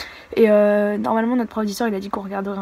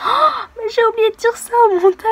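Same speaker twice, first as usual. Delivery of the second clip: much higher, louder dismay; dismayed gasp; 12 semitones higher, 7 dB louder than usual. Retold or imitated. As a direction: realise the slip, dismayed. Her own dismay when editing.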